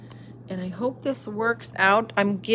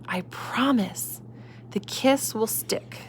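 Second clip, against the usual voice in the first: soft slow promise; reassuring; 2 semitones higher, 5 dB quieter, slower than usual. Acted. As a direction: reassure him gently and slowly. Mother reassuring child.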